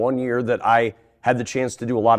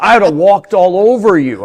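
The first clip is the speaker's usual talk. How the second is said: laughing through the quote, louder and higher; 8 semitones higher, 10 dB louder than usual. Retold or imitated. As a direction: retell the put-down while cracking up. Retelling Matt Millen's teasing verdict.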